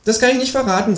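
high, secretive creature voice; Känguru. A narrator's reading. Kangaroo keeps conspiracy secret from companion, high coy voice. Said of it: "sagt das Känguru".

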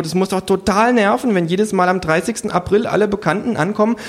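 high creature voice; needling kangaroo. A narrator's reading. Kangaroo needling a rich hostess, high-pitched. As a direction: remark pointedly in a high animal voice.

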